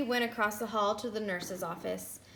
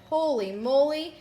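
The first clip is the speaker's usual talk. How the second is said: louder, amazed burst; surprised exclaim; 4 semitones higher, 5 dB louder than usual. Acted. Principal startled, louder exclaim. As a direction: blurt it out in surprise.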